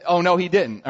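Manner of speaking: loud imitated disbelief; mock outrage. Fellow servants reacting as if today, mock outrage. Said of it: "if it were today".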